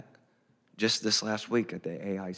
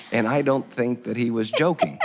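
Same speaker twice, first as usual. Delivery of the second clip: laughing; 4 semitones higher, 6 dB louder than usual. Real, not acted. Laughing over a death threat story.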